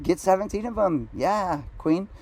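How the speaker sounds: high-pitched mock cheerleading; hyping her up. Man hyping his date's seventeen drinks, mock encouragement. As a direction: play the over-supportive hype man.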